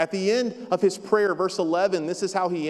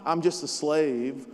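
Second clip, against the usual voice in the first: defeated; 4 semitones lower, slower than usual. Shown as a demonstration. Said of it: "What if what he was saying is not".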